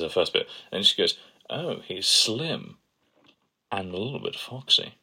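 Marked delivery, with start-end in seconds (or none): 1.5-4.9 imitating Cassandra as Ten. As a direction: drawl it out, savouring foxy. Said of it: "The way Ten says foxy is sublime".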